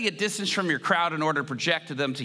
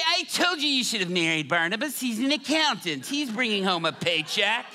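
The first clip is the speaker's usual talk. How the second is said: higher, lightly mocking voice; nagging mother-in-law; 4 semitones higher than usual. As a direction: lightly imitate a mother-in-law saying I told you so. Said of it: "She's gonna say".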